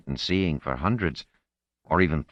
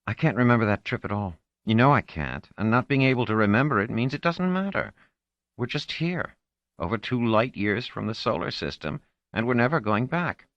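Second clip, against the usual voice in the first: put-on higher girl's voice, sulking and bitter; teenage girl, sulky; 7 semitones higher than usual. Marlena complaining to Orinel, higher sulky girl voice. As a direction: play her as a frustrated fifteen-year-old.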